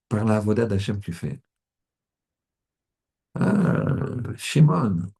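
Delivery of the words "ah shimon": mocking friend.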